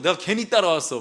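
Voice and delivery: annoyed wife. Retold or imitated. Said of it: "막 이런 소리 하지 않겠어요".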